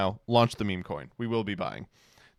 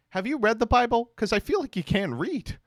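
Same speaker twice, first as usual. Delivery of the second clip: mock condescension; 10 semitones higher than usual. Streamer mocking a tweeter who can't read, condescending. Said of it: "and you're just like".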